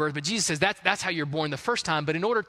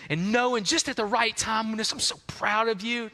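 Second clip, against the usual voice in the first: mock proud dad; 3 semitones higher than usual. Dad praising the baby.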